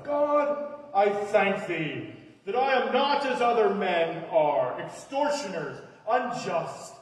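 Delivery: loud, slow prayer in a put-on accent; a boastful Pharisee's prayer in a loud, slow put-on accent. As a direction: proclaim it loudly and slowly in a made-up accent. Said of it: "I don't know where I got that accent".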